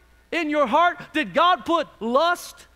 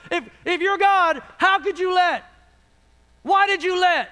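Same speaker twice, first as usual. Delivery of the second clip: raised voice of protest; arguing with God; 3 semitones higher, 3 dB louder than usual. Acted. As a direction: challenge God with an acted complaint. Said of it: "you're having this argument with God".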